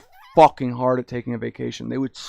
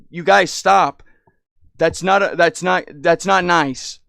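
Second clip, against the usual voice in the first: put-on child scolding; 3 semitones higher, 5 dB louder, slower than usual. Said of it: "the shit I was saying".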